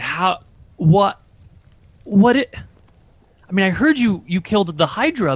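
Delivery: stunned, stammering voice. Game master voicing a character who turns to the players after the fight, stunned disbelief. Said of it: "he's visually stunned".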